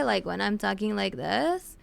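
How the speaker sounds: light vocal fry demo; slightly creaky question, rising at the end. Shown as a demonstration. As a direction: let the voice creak while asking. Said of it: "do you mean, like, vocal fry?".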